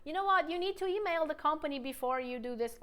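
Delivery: mock pushy, blunt demand to a client; teacher hamming up a rude tone. Shown as a demonstration. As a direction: snap it bossily at a client. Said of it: "Imagine talking to a client like that".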